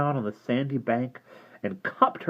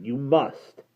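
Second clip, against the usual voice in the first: put-on insistent girl; 3 semitones higher than usual. Derna insists.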